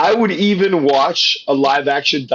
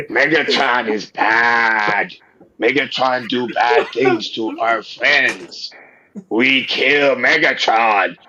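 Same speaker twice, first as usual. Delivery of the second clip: dinosaur robot voice. Pretend. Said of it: "Me Dinobots".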